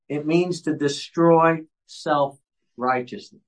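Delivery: measured, emphatic pulpit delivery; prepared sermon reading. Acted. Teaching the church why the law must be preached, emphatic sermon reading. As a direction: read it out with deliberate pauses and lifted key phrases.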